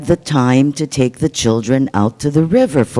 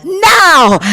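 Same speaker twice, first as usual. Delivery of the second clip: shouted signal; 14 semitones higher, 5 dB louder than usual. Acted. Boy yells signal.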